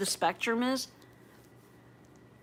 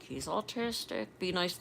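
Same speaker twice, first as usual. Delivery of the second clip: hushed aside, much softer; under my breath; 7 dB quieter than usual. Retold or imitated. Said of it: "like, under my breath".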